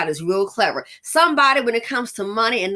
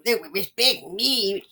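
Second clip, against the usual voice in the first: mocking quote; slower than usual. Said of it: "they want to talk about".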